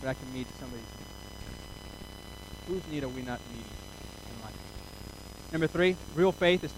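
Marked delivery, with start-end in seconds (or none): 0.0-1.1 soft emphatic repeat. Shown as a demonstration. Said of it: "repeated softer".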